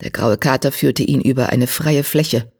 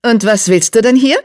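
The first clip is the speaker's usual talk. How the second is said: high, louder question with faint menace; Geißel; 8 semitones higher, 6 dB louder than usual. A narrator's reading. Black cat leader questions the returning warrior, sharp and high. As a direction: challenge the visitor in a high, sharp voice. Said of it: "Unter Geißels Stimme lag ein kaum hörbares Fauchen".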